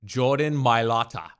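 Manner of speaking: langsamer, übertriebener Birmingham-Akzent; Birmingham accent. Pretend. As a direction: den Namen breit im Brummie-Akzent sagen. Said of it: "I'm gonna do Birmingham".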